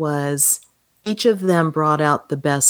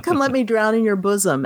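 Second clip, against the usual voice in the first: lightly mock-gushing, raised pitch; hammed-up suitor; 5 semitones higher than usual. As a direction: keep up the playful smitten act. Continues the suitor's flirtatious line.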